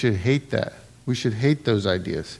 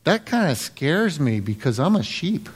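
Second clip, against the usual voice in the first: laughing. Retold or imitated. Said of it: "Pastor Schaller was like".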